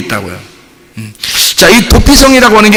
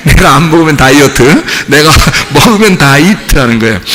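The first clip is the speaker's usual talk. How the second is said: laughing pun; 3 semitones lower than usual. Shown as a demonstration. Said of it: "laughs while repeating pun".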